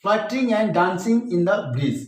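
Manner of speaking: very slow, measured reading; slow poetry reading; slow recitation. Shown as a demonstration. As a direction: read the couplet for its rhyme. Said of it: "अंतिम दो पंक्तियां".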